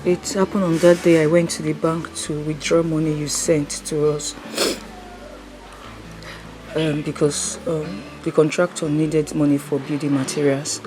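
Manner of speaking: low, soft telling of loss; grieving account. Acted. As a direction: tell of Mama's death quietly. Sad far account of death.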